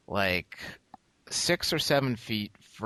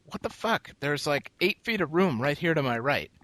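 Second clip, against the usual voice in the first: high, exasperated what the fuck; venting at rude people, pitched up; annoyed rant at people squeezing past; retold outburst; 7 semitones higher, 4 dB louder than usual. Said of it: "And I was like".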